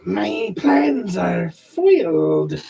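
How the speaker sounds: slow, drawn-out cat lady voice; snooty bored cat. Acted. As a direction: purr it out like a pampered cat. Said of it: "do my wife's cat voice".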